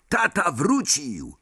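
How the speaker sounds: high, drawn-out call without much volume; excited cry. A narrator's reading. Son announcing father's return to family, excited cry. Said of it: "krzyknął George".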